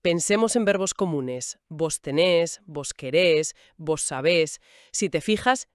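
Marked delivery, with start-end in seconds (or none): 1.7-4.6 tenés, querés and sabés each hit hard on the final syllable -nés, -rés, -bés; stress on last syllable. Shown as a demonstration. Teacher showing listeners where voseo stress falls, final syllable hit. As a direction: punch the end of each verb. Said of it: "siempre hay ese golpe fuerte al final".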